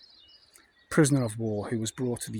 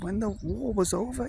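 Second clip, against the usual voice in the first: put-on old German man; 9 semitones higher than usual. Old man tells being sent home.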